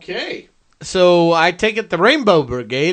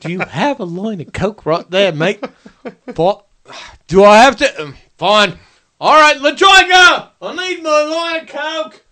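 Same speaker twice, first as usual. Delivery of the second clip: Jim Jeffries impression; 2 semitones higher than usual. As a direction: rant like an angry Aussie comic. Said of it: "can you Jim Jeffries this up for me".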